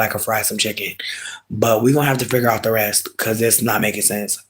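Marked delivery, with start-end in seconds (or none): 0.0-0.9 whisper. Real, not acted. Boasting secretly about frying chicken.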